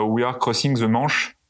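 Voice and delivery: put-on English said slowly with a heavy French accent; mock a French student pilot fumbling English on the radio; radio call in slow, heavily French-accented English; thick French accent. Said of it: "avec le plus bel accent français qui soit".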